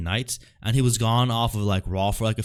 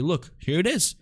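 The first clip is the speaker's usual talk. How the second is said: imitating Roman Reigns; 7 semitones higher than usual. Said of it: "he said to Cody".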